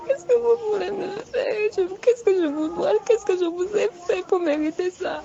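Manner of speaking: high, tearful, rising pleading questions; crying plea. Real, not acted. Woman recalling her attack, begging in tears. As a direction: beg through sobs for mercy.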